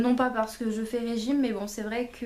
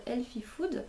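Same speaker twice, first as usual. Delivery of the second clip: put-on Healthy Food said with a jokey English accent, slower; self-mocking English accent on a magazine name; 6 dB quieter, slower than usual. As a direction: put on a half-serious English accent for the title. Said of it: "avec mon super accent anglais de nouveau".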